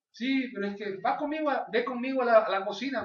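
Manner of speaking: put-on high-pitched, insistent child's request; imitated daughter. Daughter asks dad along to the kitchen, imitated daughter's voice. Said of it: "me dice".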